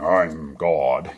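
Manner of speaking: hammed-up divine announcement; mock powerful God voice. Dreamer shows what the voice wasn't, mock-mighty. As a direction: pretend to be God trying to sound powerful. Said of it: "it wasn't trying to be powerful".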